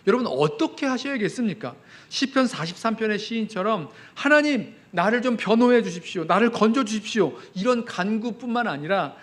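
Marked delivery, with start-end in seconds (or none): 4.1-7.3 high, loud desperate prayer; loud plea. Acted. Preacher voicing the psalmist begging rescue, loud plea. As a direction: beg God to rescue you.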